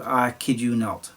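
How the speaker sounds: ordinary talk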